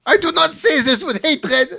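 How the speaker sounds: high, slow put-on piety, breaking into laughter; mock solemn voice. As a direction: ham up the pious tone. Mock pious reading of article.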